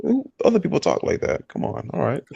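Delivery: imitating a Southern friend. Imitating her Southern high school friend's accent. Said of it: "and I was like".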